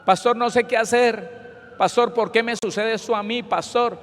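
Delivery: retold distraught wail; imitated desperation. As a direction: beg the pastor for answers as if desperate.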